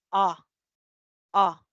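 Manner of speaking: "A" as a short uh, mouth barely open; schwa A. Shown as a demonstration. Teacher showing students the schwa, barely open "A". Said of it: "Apenas es como que abrimos la boca".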